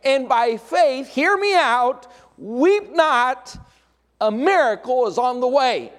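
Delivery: slow, high, loud promise building to a peak; Jesus comforting. Acted. Jesus promising the grieving widow a miracle, slow and rising. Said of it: "he was saying".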